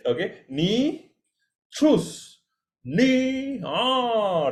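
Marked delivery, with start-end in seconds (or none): 0.5-3.6 ni, then high rounded choose, then ni with lips kept rounded; three-step demo. Shown as a demonstration. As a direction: model it slowly for students. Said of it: "that's how you do it".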